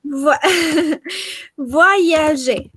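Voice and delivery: laughing through the word voyager. Real, not acted. Teacher laughing while modelling the word voyager for the class. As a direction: breaks into a laugh, then says voyager.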